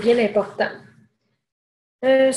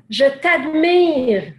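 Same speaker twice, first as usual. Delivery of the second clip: calling out; 4 semitones higher, much slower than usual. Retold or imitated. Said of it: "il crie dans la montagne".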